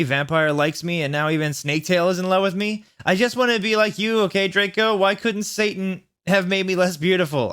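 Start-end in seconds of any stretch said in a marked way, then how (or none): 3.1-7.5 put-on high, whiny teen lament; mock-tragic teen whine; whiny goth heroine.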